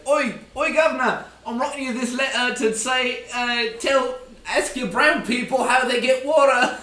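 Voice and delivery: high, loud mock Cockney letter; hammed-up London accent, pitched high; British surveyor. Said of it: "impersonating a British surveyor".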